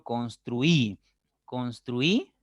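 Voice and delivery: construí with the stress on the final í. Shown as a demonstration. Teacher modelling for students, construí stressed at the end. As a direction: say construí, landing on the í. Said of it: "La mayor intensidad está en".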